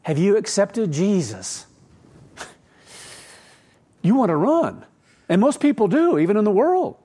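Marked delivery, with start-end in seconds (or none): 0.0-1.6 slow, mildly sugary mock of the question; syrupy evangelist voice. Preacher imitating people who ask others, mild mock. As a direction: drag it out like a pushy believer. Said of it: "people who think they have to ask others".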